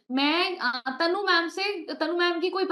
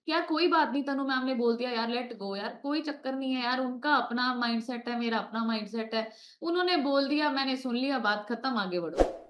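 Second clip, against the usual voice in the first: soft, lower voice talking herself down; calm self-reassurance; 4 semitones lower, 3 dB quieter than usual. Retold or imitated. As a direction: ease your own mind gently. Soothing self-talk, letting go. (खुद को धीरे से, नरम आवाज़ में समझाना)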